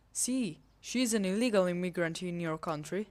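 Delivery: mock Spanish accent. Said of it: "for my bad accent".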